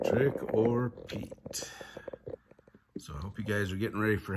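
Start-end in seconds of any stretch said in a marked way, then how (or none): 0.1-1.7 giggling through the title, half whispered; laughing. Real, not acted. Reader giggles at the book's funny title.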